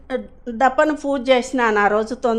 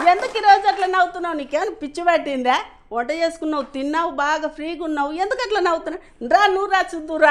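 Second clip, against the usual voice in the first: landlady; 3 semitones higher, faster than usual. Retold or imitated. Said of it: "ఇంటి owner అమ్మ".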